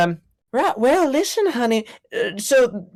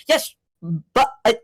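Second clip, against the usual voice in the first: choppy slow radio voice; slower than usual. Acted. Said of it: "so painful listening to this voice come through".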